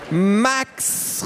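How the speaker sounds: put-on little girl calling her brother, high call. A narrator's reading. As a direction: call across the house to brother. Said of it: "rief Tiffany".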